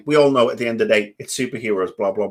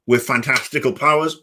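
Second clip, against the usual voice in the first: talking around a throat lozenge; mouth full; 3 semitones higher than usual. Real, not acted. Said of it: "Oh, sorry, that was my throat lozenge".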